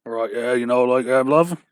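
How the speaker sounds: put-on loose English pub accent on the words; mock English bar accent. To friends, showing the English bar accent they prefer, lightly mocking. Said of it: "the bar accent is more of the".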